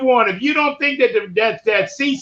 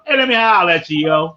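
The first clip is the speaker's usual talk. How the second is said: hey holler at you in a Baltimore street accent, drawled; 8 semitones lower than usual. Shown as a demonstration. Host hailing the panel in a Baltimore accent. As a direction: lay on the Baltimore accent to hail a friend. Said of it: "let me say in Baltimore".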